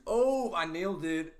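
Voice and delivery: loud, high burst of triumph. Real, not acted. Celebrates getting a guess right.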